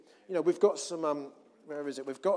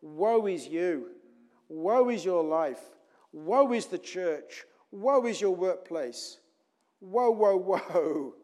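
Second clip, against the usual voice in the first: slow, drawn-out "woe"s, building louder; doom-laden taunt; 5 dB louder, slower than usual. Acted. Satan telling us to put on grumbling, slow mock doom. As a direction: intone each woe heavily, swelling at the end. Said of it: "Put on this coat of grumbling".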